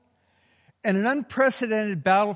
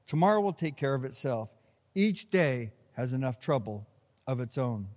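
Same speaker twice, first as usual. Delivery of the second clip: measured reading of the passage, sinking at the end; solemn Bible reading; scripture reading. Acted. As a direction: read the text solemnly, slowing toward the close. Reads the scripture.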